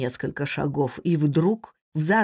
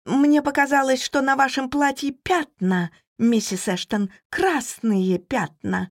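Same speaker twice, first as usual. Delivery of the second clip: high, flustered maid explaining herself; anxious, raised voice slowing at the end; flustered babble; 7 semitones higher than usual. A narrator's reading. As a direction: start high and startled, then drag out the last words. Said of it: "пролепетала она".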